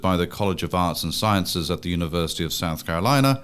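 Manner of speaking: measured announcer read over theme music; podcast intro read. Acted. Host opens Take on the South for listeners, announcer read. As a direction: introduce the show in a scripted announcer style.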